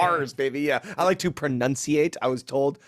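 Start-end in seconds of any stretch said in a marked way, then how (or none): 0.0-0.6 R's with the r drawn hard; overdone R's. Pretend. Bandmate owning the overdone R's, exaggerated r. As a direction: lean on the r in "R's". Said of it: "Say all your R's".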